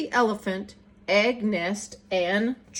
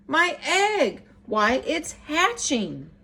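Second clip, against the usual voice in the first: excited shout; 5 semitones higher, slower than usual. Acted. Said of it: "shouted Horton".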